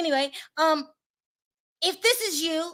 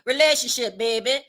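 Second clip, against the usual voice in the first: put-on Louisiana accent. Vlogger demonstrating her take on the woman's Louisiana accent. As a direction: have a go at her Louisiana twang. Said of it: "this is my Louisiana accent".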